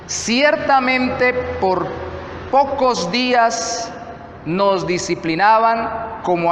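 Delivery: deliberate, projected Bible reading; scripture reading. Acted. Pastor reads Hebrews for congregation to follow along, deliberate scripture reading. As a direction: read it out phrase by phrase, measured.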